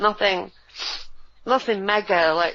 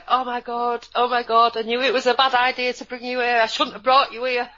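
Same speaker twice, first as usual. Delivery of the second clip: higher-pitched, agitated self-quote; mildly frantic, raised pitch; retold dismay; 4 semitones higher than usual. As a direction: act out a panicked regret. Acts out own alarmed reaction to waking.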